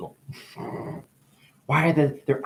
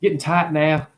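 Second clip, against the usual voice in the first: mock complaining. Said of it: "You'd complain".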